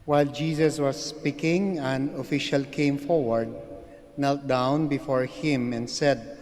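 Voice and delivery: solemn, measured scripture reading; gospel reading. Acted. Priest proclaims the gospel reading.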